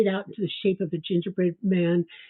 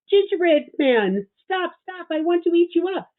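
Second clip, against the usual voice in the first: little lamb; 11 semitones higher, 4 dB louder than usual. Acted. Baby lamb begging the gingerbread man to stop, high voice. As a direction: bleat it like a tiny hungry lamb.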